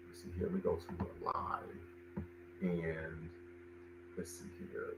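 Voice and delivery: hushed, breathy mutter while looking something up; near-silent mutter to self; muttering to himself. Real, not acted. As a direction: talk under the breath as if reading off a screen. Searching for the date on screen.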